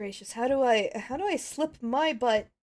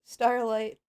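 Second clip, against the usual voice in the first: lightly voiced determined pony; a hint of a worried leader pony; Twilight urgent. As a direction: Twilight giving orders.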